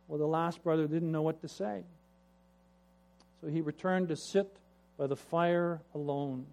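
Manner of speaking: usual speaking voice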